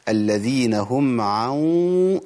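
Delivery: عن chanted slowly with a long nasal hum on the n; slow recitation with a held nasal n; nasal hiding demo. Shown as a demonstration. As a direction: hold the ghunna on the n of عن. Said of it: "دي غنة إخفاء".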